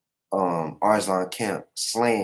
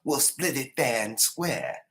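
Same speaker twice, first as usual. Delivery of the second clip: rallying call; 5 semitones higher, 5 dB louder, slower than usual. Retold or imitated. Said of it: "He's like".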